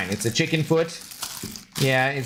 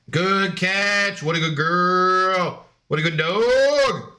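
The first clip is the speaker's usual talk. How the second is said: doggy praise; 3 semitones higher, much slower than usual. Real, not acted. Praising the dog.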